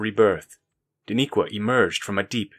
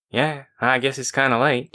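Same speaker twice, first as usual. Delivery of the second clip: yawning; 3 semitones higher than usual. Acted. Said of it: "Daniqua yawned".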